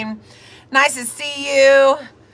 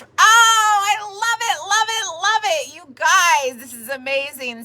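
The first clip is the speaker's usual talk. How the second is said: out of breath; 6 semitones higher than usual. Real, not acted. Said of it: "I'm out of breath".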